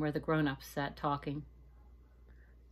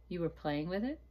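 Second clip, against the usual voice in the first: gentle smile. Acted. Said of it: "smiling gently".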